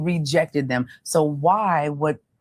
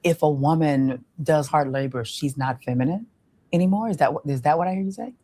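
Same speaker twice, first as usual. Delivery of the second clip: calm probing question; 2 semitones lower than usual. Shown as a demonstration. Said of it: "I'll say".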